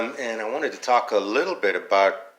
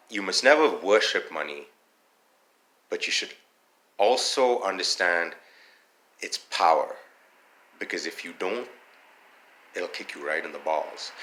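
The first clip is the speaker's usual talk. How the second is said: retold fatherly advice. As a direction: pause between phrases, letting each part land. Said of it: "was he said".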